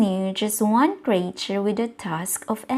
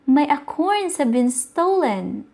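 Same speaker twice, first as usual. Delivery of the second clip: mild cry of dismay; 5 semitones higher, 3 dB louder than usual. Acted. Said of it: "Squirrel shouted with a cry".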